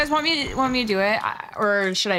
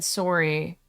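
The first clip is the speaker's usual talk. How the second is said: repeating the Canadian "sorry"; Canadian accent; 4 semitones lower than usual. Retold or imitated. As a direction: say "sorry" with a Canadian "sore" vowel. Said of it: "I just spoke Canadian".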